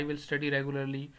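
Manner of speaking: slowly, I will study regularly; dictating an example; slow wrong example. Shown as a demonstration. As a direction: present the wrong sentence carefully. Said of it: "یہ غلط ہے".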